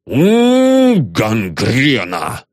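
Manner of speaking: spat out with hatred, dragged slowly; hateful curse. A narrator's reading. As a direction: janitor kicks the lock and curses with hate. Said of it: "с ненавистью сказал".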